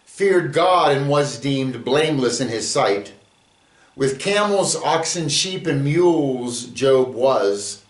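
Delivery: measured verse reading that leans on the rhymes; poem reading. Acted. Teacher reads his own Job sonnet to the class, measured. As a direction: let the sonnet's beat carry it.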